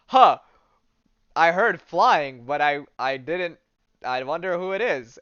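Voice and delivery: Magneto caught off guard; startled villain. Retold or imitated. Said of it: "Magneto ... is like".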